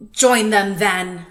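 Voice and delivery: loud, slow snarl. A narrator's reading. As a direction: snarl it out, slowly. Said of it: "snarled the lobster".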